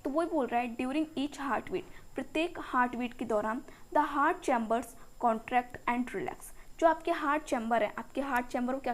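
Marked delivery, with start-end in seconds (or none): 0.8-2.1 slow dictation. Shown as a demonstration. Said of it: "teacher dictating from the textbook". 4.0-6.5 slow dictation. Shown as a demonstration. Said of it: "teacher dictating from the textbook".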